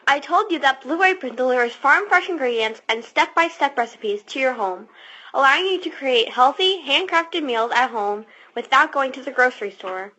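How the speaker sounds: upbeat sponsor read. Acted. Alicia reading the ad copy to Dad, upbeat ad read. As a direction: sell it like a radio ad. Reads a Blue Apron ad.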